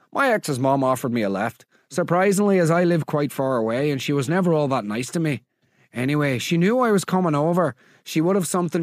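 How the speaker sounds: attempted Northern Irish accent drifting Scottish; Scottish-sounding accent. Host reading a listener's story about an ex's mum, Scottish-sounding accent. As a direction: read it in an accent that slips into Scottish. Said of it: "Why is she Scottish now?".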